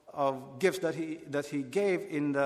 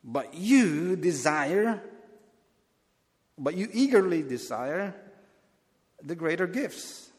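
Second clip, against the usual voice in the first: rebuking; 3 semitones higher than usual. Shown as a demonstration. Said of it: "that this is a rebuke".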